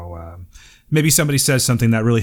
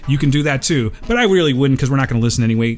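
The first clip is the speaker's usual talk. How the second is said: upbeat host voice over music; podcast announcer read. Acted. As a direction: sell the contact info like a radio host. Reads contact info segment.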